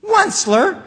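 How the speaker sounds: high, loud croaking call of the name; croaking cry. Acted. Lorax calling out to the Onceler, high croaking cry. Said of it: "he cried with a cruffulous croak".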